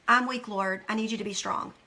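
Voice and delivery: low plea, softening as it goes; humble prayer. Acted. Praying to the Lord for strength, humble and low. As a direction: admit weakness humbly, voice sinking. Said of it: "That's being humble".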